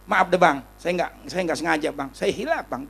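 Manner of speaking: softened, imitated pleading apology; meek apology. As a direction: back down humbly, as if to an aggressor. Models meek apology after the threats.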